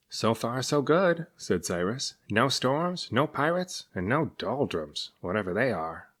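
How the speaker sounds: relieved and a little naive; a hint of a chuffed sea monster; pleased serpent. Cyrus pleased.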